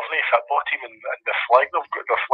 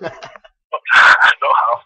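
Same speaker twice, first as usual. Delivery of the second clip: laughing; 3 semitones higher, 9 dB louder than usual. Real, not acted. Laughing reply to friend's joke.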